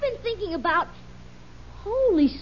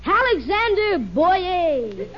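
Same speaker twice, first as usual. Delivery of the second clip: slow, grand stage name reveal; dramatic actor voice; much slower than usual. Acted. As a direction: announce it like a matinee idol. Son tries new stage name.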